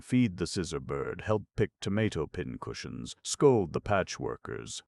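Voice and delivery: high and loud, climbing item by item; rising list. A narrator's reading. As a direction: reel off the chores, voice climbing. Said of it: "his voice growing higher with each item".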